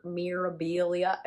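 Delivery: put-on slow, faintly accented Mirabilia; odd accent. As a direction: say Mirabilia with a stray foreign lilt. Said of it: "I don't know where that accent comes from".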